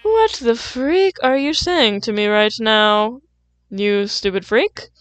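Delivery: slow, drawn-out mock outrage at the lyric. Reacting to the singer's lyric, slow mock outrage. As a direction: act baffled and offended by the line, slowly. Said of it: "I was like".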